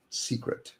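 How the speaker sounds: breathy hushed whisper of the word Secret, mocking secrecy. Shown as a demonstration. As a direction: whisper Secret like a conspirator, tongue in cheek. Whispers the buzzword for effect.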